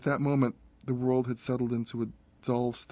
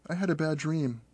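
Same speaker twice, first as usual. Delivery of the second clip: put-on small child voice; 5 semitones higher than usual. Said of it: "Tommy's voice squeaked".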